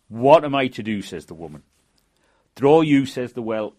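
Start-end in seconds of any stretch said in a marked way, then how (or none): 0.1-1.0 desperate plea. Acted. Desperate woman pleads to well. 2.5-3.0 commanding call. Acted. Well voice commands.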